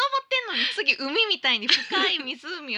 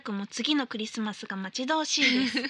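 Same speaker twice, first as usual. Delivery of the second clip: letter reading; 4 semitones lower than usual. Acted. Host reading listener's New Year mail on air, formal read.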